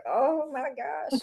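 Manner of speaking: stunned oh my gosh. Retold or imitated. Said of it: "And I was like".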